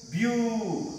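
BU drawn out on its own; isolated syllable. Shown as a demonstration. Teacher counting the sounds in beautiful, BU held alone. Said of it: "how many sounds it gives".

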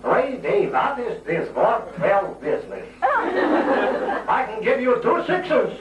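put-on New York Jewish accent, bargaining with the captain. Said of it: "a New York Jewish accent".

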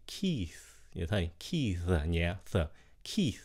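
Keith with a light th, lips left open, soft; soft unclosed th. Shown as a demonstration. Teacher shows the soft th ending. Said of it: "đừng có khép môi lại".

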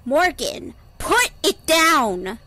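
high, urgent female shout; desperate high-pitched command; girl shouting. A narrator's reading. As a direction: plead loudly, drawing out the order. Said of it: "she shouted".

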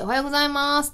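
polite, lifted staff greeting; workplace greeting. Retold or imitated. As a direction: call out a sing-out morning hello to coworkers. Calls a greeting on arriving at work.

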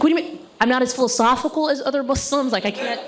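high, rising outraged questions; hammed-up affronted rant; mock indignation. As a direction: act offended, pitch climbing as you go. Acted indignant reply to insult.

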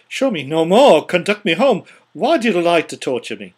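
loud, desperate plea; anguished pleading. Acted. Scrooge pleading with the ghost, loud and desperate.

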